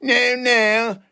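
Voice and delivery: slow, commanding mock exorcist; a hammed-up preacher ordering Satan out; movie exorcist. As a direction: cast out the demon like in the films. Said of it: "You've seen it on the movies".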